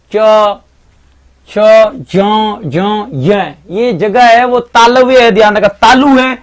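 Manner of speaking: च छ झ झ य each said alone, with pauses; sounding out letters. Shown as a demonstration. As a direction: demonstrate च छ झ य one by one for the class. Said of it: "ये जहां से उच्चारण कर रहे हो".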